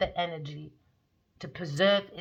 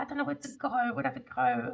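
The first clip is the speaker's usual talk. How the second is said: put-on higher-pitched, mildly tearful child voice; plaintive mock crying of a lost child; imitated crying; 5 semitones higher, much faster than usual. Crying child asking the speaker for directions, imitated tearful plea. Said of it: "he was crying".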